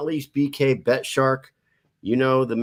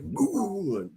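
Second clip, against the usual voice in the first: imitated boom; 11 semitones higher, 4 dB quieter than usual. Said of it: "like, a sonic boom".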